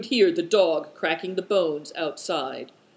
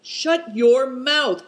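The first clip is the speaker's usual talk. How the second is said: higher, louder, slow indignant cry; 8 semitones higher, 6 dB louder, much slower than usual. A narrator's reading. Nephew silencing the mocking companion, indignant and loud. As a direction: slam the words down at him. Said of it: "cried Good Fortune indignantly".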